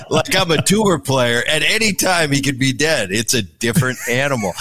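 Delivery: mock indignant.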